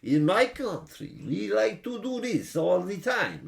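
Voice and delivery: put-on slow, loud thick Russian accent. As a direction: ham up a heavy Russian accent. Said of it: "he's got the thick Russian accent".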